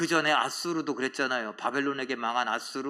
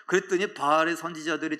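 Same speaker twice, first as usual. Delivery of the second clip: usual speaking voice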